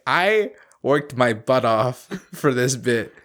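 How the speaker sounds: slow, laughing mock grievance; mock betrayed. Voicing someone whose bit got missed, mock betrayed. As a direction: drag it out as a hammed-up complaint. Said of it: "you feel almost betrayed by this individual".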